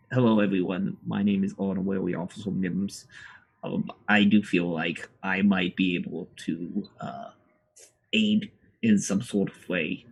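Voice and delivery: lightly voiced polite officer; a hint of a formal, eager officer; Officer Mims voice. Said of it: "Honorary Officer Mims steps up and he goes".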